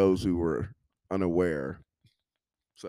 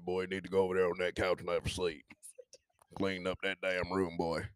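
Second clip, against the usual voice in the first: somebody's daddy; 3 semitones lower, 5 dB quieter than usual. Retold or imitated. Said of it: "sound like somebody daddy".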